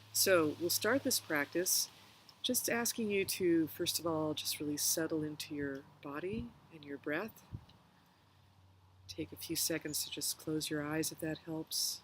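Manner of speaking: calm meditation guide, pausing between phrases; unhurried guided reflection with long pauses. Real, not acted. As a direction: gently lead listeners through a reflection, leaving room to breathe.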